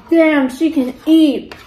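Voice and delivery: slow teasing drawl. Retold or imitated. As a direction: tease her about eating. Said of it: "I hate that".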